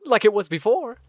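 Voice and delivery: lightly voiced elder, marvelling; storybook elder warming to a hope; delighted game elder. Elder asks newcomer to water the ground, lightly voiced delight.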